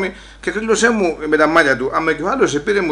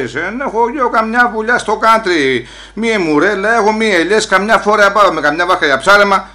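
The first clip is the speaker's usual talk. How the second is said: raised, higher voice, louder toward the end; loud protest; 5 semitones higher, 4 dB louder than usual. Retold or imitated. The villager shouts his defense at the policemen. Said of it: "Μη φωνάζεις έτσι".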